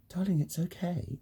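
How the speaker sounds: put-on high, soft, sugary voice as if to a child; talking down to a kid. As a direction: soothe him like a small child. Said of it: "speak to me like I'm a kid".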